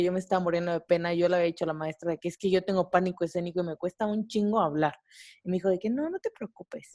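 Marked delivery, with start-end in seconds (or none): 5.9-7.0 soft, drawn-out, higher reassurance; lightly acted soothing teacher, voice lifted and softened; mock reassurance. Teacher reassures a student with stage fright, softly.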